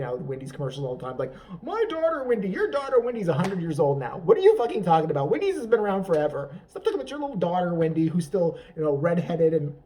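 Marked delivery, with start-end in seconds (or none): 1.6-9.7 mock rant. Ranting at Wendy's commercial.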